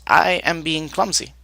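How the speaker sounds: a weary, put-upon cook; Krian voice. Acted.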